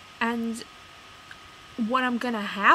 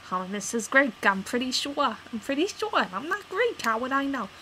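louder and climbing higher, fed up; exasperated insistence; 4 semitones higher, 4 dB louder than usual. Retold or imitated. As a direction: throw up your hands at the clerk. Exasperated acted quote.

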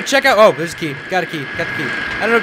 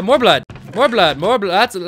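ordinary talk, nothing marked

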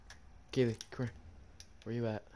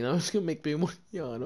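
laughing; 4 semitones higher, 6 dB louder than usual. Real, not acted. Yawning contagion banter.

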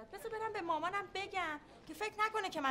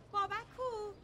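anxious demand; 7 semitones higher, slower than usual. Acted. Anxiously demanding where her child is.

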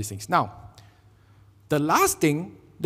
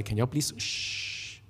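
put-on slow, soft, whispered hush to noisy kids; irritated whisper asking for quiet; whispered shush; 3 semitones lower, 10 dB quieter, slower than usual. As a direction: shush them under your breath. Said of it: "Was he angry with the children?".

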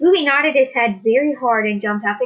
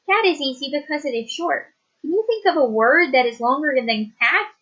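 lightly higher schoolteacher quizzing the class; teacher voice; 4 semitones higher than usual. Acted. Teacher challenging the class for a longer word, lightly higher. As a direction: ask it like a teacher testing pupils.

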